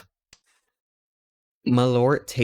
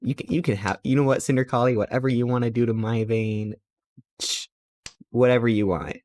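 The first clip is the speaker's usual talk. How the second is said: flustered; 3 semitones higher than usual. Retold or imitated. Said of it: "I was getting flustered".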